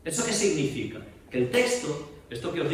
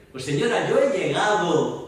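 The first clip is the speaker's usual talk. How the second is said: "Pues señora, yo he llegado" louder, left hanging without a falling close; held, suspended ending; 3 semitones higher, 4 dB louder than usual. Shown as a demonstration. Teacher showing actors how to hold a verse open. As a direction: suspend the line so the action holds. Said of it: "porque no voy a acabar".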